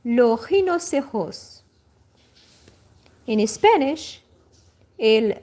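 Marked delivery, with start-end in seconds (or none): 0.0-1.6 rhinoceros in French with the final S sounded; final S pronounced. Shown as a demonstration. Teacher shows the French word for her students, final s sounded. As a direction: rhinoceros with the r from the throat and the last s heard. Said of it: "One more time".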